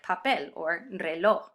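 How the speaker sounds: pa-PEL, re-LOJ, endings stressed; stress on final syllable. Shown as a demonstration. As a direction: land on the last syllable of "papel" and "reloj". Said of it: "stress the final syllable".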